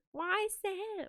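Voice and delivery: British accent. Shown as a demonstration. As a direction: attempt a British accent, lightly. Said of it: "how do you say why in a British accent".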